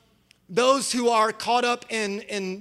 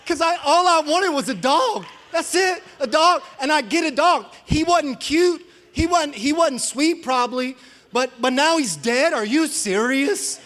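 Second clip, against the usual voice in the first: laughing complaint; 6 semitones higher, 4 dB louder than usual. Retold or imitated. Retelling childhood outrage, laughing.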